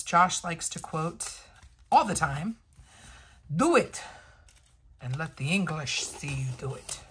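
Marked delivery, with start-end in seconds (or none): 3.5-7.0 loud Scottish-ish movie rallying cry; mock Scottish battle cry; Mel Gibson Braveheart. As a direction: shout it like Braveheart rallying the troops. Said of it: "I don't know what accent that was, ... Mel Gibson in Braveheart".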